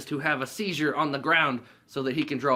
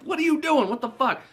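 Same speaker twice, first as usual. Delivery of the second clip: high, loud disbelieving scolding; mock exasperation; 6 dB louder than usual. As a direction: act out grabbing a friend in disbelief. Craig grabs him, exasperated.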